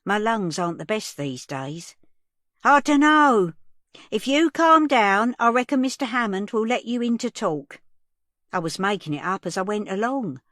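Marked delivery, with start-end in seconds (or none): 2.6-7.8 shouting. A narrator's reading. Shouting through door to Sandy.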